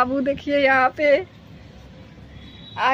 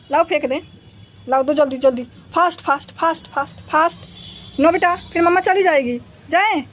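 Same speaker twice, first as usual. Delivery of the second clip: excited pet talk; 3 semitones higher, 3 dB louder than usual. Real, not acted. Urging dog to play.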